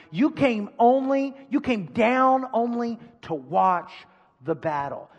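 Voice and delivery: lightly acted big-brother scolding; accusing, mildly scolding tone; older brother scolding. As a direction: tell off your little brother. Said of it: "picture an older brother scolding tone".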